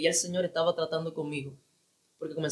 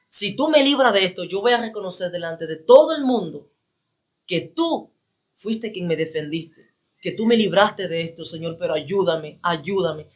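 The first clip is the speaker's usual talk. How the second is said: desperate pleading; 5 dB louder than usual. Retold or imitated. Retold desperate prayer, vowing.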